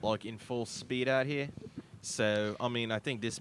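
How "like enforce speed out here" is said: put-on Australian accent; casual Aussie explaining local rules. Host in character explaining speed enforcement, Aussie accent. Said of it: "I have to speak in an".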